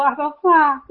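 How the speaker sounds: high, pleading surrender; retold tearful prayer. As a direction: re-enact crying out in prayer, pitched high. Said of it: "一边喊一边哭". (转述哭喊祷告，高声恳求)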